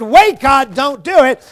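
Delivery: mock desperate shout; pleading cry. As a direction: call out to stop him. Moses pleading with God.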